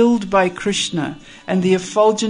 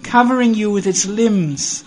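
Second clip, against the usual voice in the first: chivalrous pride; 3 semitones higher, 4 dB louder than usual. Acted. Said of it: "with very chivalrous pride".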